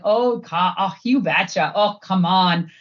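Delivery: a light Wisconsin accent with long O's, Fargo style. Shown as a demonstration. Showing the interviewer her home accent, a light Wisconsin accent. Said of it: "a little bit of a Wisconsin accent I can put on".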